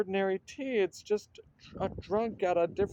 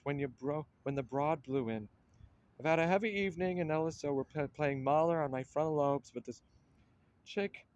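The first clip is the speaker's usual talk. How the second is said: deadpan private-eye voice-over; hardboiled noir narration. Acted. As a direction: tell it like a tough forties detective. Hardboiled detective story pastiche.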